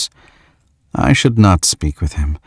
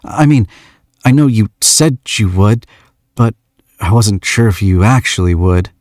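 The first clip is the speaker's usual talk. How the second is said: put-on lightly higher young man's voice; shy young man; 4 semitones higher than usual. George asks the stranger why she came, lightly shy. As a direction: ask with awkward shyness.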